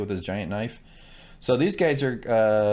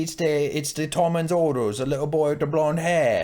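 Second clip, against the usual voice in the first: mock guard voice; 6 semitones higher than usual. Voicing nervous guards.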